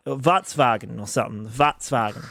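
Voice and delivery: "Volkswagen" as VATS-vah-gen; German-style pronunciation. Shown as a demonstration. Showing how German workers say it, "Volkswagen" as VATS-vah-gen. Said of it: "They say it like that".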